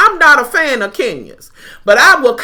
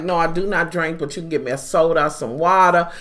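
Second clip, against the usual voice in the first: imitating Kim; 7 semitones lower, 5 dB quieter than usual. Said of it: "She's like".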